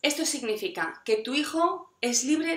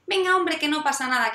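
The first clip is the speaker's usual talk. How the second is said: dismissive brush-off; 5 semitones higher, 4 dB louder than usual. Retold or imitated. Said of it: "en lugar de decirle".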